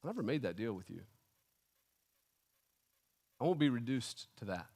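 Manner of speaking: low, soft, solemn reply; understated, grave refusal; quiet rebuke. Acted. God answering the bargaining believer, quiet rebuke. God's reply, voiced softly.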